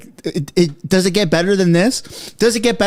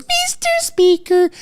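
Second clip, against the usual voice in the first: high, slow mock Freeland "Mister Speaker"; imitating Freeland; 11 semitones higher, slower than usual. Streamer mimicking Chrystia Freeland in the House, high and slow. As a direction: lightly parody her call to the Speaker. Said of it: "when she goes".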